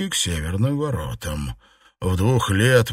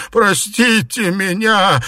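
high, slow, loud plea; bowing plea; 9 semitones higher, 5 dB louder than usual. Acted. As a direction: grovel as you beg. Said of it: "низко кланяясь".

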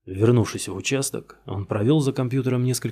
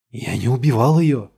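loud, insistent repeat; stubborn denial; 2 semitones higher, 7 dB louder than usual. Acted. Suspect insisting on innocence to the detective, loud and stubborn. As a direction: dig in and refuse again. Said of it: "настырно повторил Гирт".

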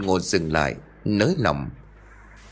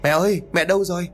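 high, fast desperate call; calling loudly; 9 semitones higher, faster than usual. Acted. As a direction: call out for your missing mother. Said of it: "rồi gọi lớn". (giọng gọi lớn hốt hoảng, cao và nhanh)

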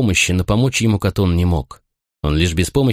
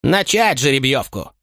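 slow, measured parade order; formal command; 5 semitones higher than usual. A narrator's reading. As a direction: give the order for the lots. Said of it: "скомандовал".

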